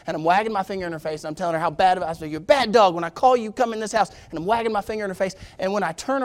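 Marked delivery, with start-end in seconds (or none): 2.3-4.1 mild mock scolding, pitched slightly up; retold scolding. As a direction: scold a naughty dog, without real anger. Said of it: "the whole way I'm scolding her".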